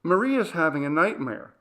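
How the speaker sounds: put-on high, loud child calling for mom; a frightened little girl rousing her mother; urgent child's call. A narrator's reading. Daughter waking mom at night, high urgent call.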